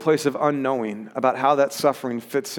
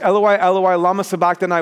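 raised, higher cry in scripture reading; 4 semitones higher, 5 dB louder than usual. Acted. Preacher reminding listeners what Jesus really said, crying out. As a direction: call it out louder, tapering at the end. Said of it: "cried out in a loud voice".

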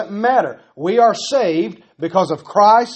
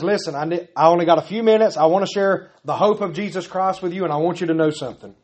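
hurried witness; faster than usual. Pretend. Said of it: "somebody comes to you and says".

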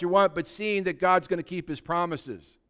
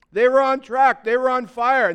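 louder, higher, driving the point; fired-up preaching; 6 semitones higher, 8 dB louder than usual. Real, not acted. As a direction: preach it at full force. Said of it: "Am I yelling at you guys".

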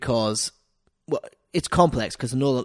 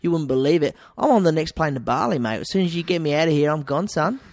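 louder, higher broad Australian ocker; 4 semitones higher, 4 dB louder than usual. Pretend. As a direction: play up the broad Australian larrikin. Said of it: "I'd play up the ocker".

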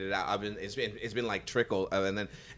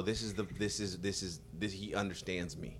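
hushed awe; 8 semitones lower, 13 dB quieter than usual. Retold or imitated. Awed quiet reaction.

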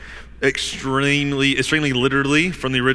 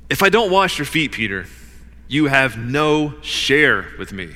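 extremely firm. Acted. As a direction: lay down a firm condition to a disciple. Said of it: "Jesus is speaking extremely firmly with Peter".

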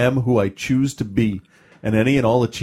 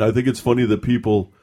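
dumb guy voice. Retold or imitated. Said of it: "I'm using a dumb guy voice".

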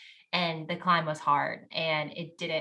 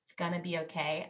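mom comforting; 5 dB quieter than usual. Retold or imitated. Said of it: "your mom has to comfort you and hold you".

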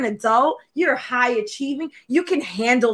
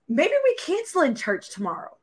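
higher-pitched imitation of a tearful plea; mock crying out; 5 semitones higher than usual. Preacher retelling her meltdown over tomorrow's church, mock cry. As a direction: retell a cried-out plea, lightly hammed up. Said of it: "I just cried out and I was like".

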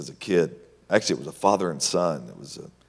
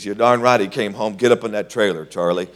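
loud, emphatic order; bold command; 4 semitones higher, 9 dB louder than usual. Retold or imitated. Tony telling the wife her husband is home. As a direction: push him inside firmly. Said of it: "He says".

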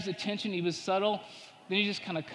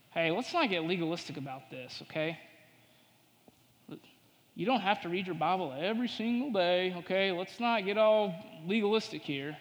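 casual tempter. Acted. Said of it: "He comes in and he says".

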